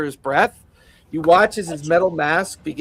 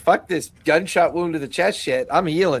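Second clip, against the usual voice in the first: ordinary delivery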